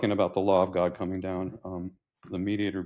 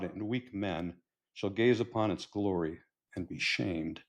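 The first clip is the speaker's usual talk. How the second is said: declaimed verse, stressed line openings, falling ends; poem recital. Acted. Grandfather handing his hot rod down, poetic recital.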